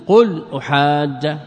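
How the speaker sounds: أحاج slowly, as "uhaajja"; أحاج with doubled jim and final "a"; fatha for jazm. Shown as a demonstration. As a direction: stretch the alif and end أحاج on "-ja". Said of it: "بالفتح على أنه مجزوم".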